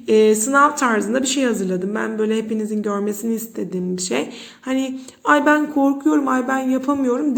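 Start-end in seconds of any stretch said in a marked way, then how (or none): 5.2-7.4 hammed-up fearful complaint; scared student. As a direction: act out a nervous pupil saying she can't do it. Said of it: "dememeniz için yaptım bunu".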